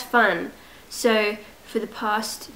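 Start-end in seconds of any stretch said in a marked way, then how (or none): 1.6-2.5 slow, accidental British accent. Real, not acted. Vlogger sick at home drifting into an unplanned British accent. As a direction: slip slowly into a British accent. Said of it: "why am I doing a British accent".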